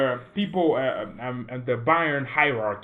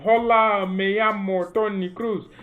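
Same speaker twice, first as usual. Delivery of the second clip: higher, louder, slow, hammed-up Spanish greeting; imitating Kroos in Spanish; 5 semitones higher, 3 dB louder, slower than usual. Vlogger imitates Toni Kroos speaking Spanish, hammed-up and slow. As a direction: play Kroos proudly introducing himself in Spanish. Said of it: "stop speaking and saying".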